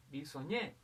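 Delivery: "Bisoñé" with its weight on ÑÉ; stress on last syllable. Shown as a demonstration. Teacher finding the strongest syllable, stress on ÑÉ in "Bisoñé". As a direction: lean on the final ÑÉ of "Bisoñé". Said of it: "la mayor fuerza va a ser en Y".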